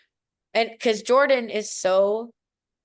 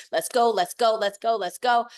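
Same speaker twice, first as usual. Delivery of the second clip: amped up; 4 dB louder than usual. Retold or imitated. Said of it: "I'm starting to get amped".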